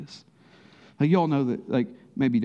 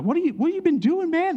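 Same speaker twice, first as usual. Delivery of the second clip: barge in as the annoyed boss; impatient boss. Retold or imitated. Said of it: "The boss is coming in like".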